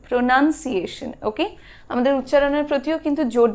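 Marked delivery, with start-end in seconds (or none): 0.1-1.1 "প্রোনাউন্সিয়েশন" as pro-nun-see-AY-shun; careful uh vowel in the nun of "প্রোনাউন্সিয়েশন"; demonstrated pronunciation. Shown as a demonstration. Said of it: "আর এটা হলো".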